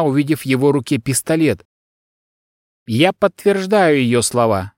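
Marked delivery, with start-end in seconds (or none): 2.9-4.7 slow, gentle confirmation; soft voice. Acted. Secretary calms the armed son, soft slow voice. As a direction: calmly soothe the room. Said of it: "мягким голосом сказал секретарь".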